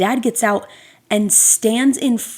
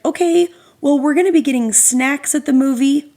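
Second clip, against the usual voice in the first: nice mom; 5 semitones higher than usual. Retold or imitated. Mom answering the rude dad, high and polite. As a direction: keep it sweet while cornered. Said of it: "she's way nicer than me".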